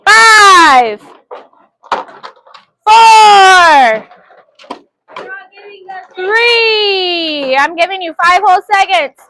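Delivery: loud countdown for the class; teacher counting down to the class, loud. Real, not acted. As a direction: call out the countdown. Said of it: "real fast".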